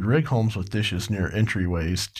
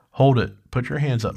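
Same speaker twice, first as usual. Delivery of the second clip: louder, higher police command; shouted command; 3 semitones higher, 3 dB louder than usual. Retold or imitated. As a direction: bark the order like a cop mid-chase. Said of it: "McGowan shouted".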